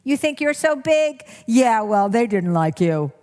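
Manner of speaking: high, sneering put-down; inner critic. Shown as a demonstration. Critic voice cutting down someone who changes, sneering. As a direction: belittle the listener. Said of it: "that voice will come in".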